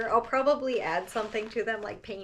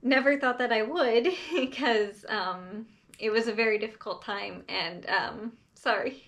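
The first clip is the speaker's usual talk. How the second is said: holding back tears; 4 dB louder than usual. Real, not acted. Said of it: "trying so hard not to cry".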